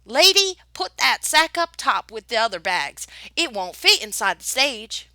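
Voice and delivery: gruff driver's shout about the sack; stage driver shouting. Acted. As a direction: bark it at her like a gruff coachman. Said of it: "stopped us shouting".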